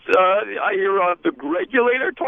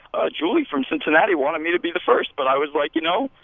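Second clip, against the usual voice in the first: slipping puppet voice; 4 semitones lower than usual. Acted. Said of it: "The voice is slipping".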